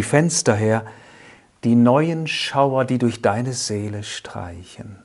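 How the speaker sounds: solemn poetry reading, strong openings falling away at line ends; poem recitation. Acted. Speaker recites Ernst Stadler's first poem to listeners, measured poetic recitation. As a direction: recite the verse with measured pauses.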